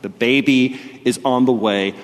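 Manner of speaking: urgent, pressing wife's voice; intense. Retold or imitated. Wife calling her husband in labour, intense and urgent. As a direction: make it sound like the baby is coming now. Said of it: "in very intense way".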